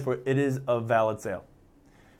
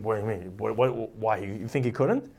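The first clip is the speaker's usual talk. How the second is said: incredulous intonation; 4 semitones lower, 4 dB quieter than usual. Shown as a demonstration. Teacher demonstrating the Gemara's tone to students, softly incredulous. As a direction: let the wonder show: surely he could. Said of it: "that intonation which saying".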